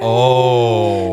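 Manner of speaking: a hushed, shocked oh; whispered oh. Real, not acted. Friend whispering in shock at the killer reveal.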